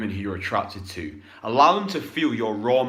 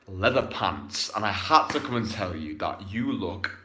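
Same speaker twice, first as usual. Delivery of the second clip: much lower and softer, intimate approach line; low confident pickup line; 5 semitones lower, 4 dB quieter than usual. Shown as a demonstration. Coach role-playing an approach to a woman, low and intimate. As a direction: speak it low, close and sure. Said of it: "imagine you're the woman".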